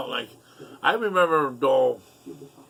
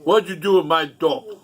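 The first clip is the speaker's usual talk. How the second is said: higher, louder mock-angry demand; retold accusation, pitched up and punched; angry confronting; 4 semitones higher, 6 dB louder than usual. Confronting brother in the attic, retold anger. Acted quarrel with brother over dope.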